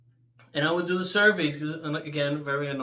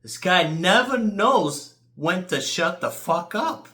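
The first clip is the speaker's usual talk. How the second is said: mock rant; 2 semitones higher, 5 dB louder, slower than usual. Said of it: "I'm like".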